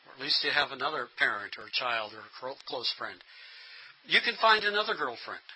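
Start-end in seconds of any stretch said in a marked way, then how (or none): 4.1-5.5 mock platitude. Shown as a demonstration. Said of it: "some things not to say".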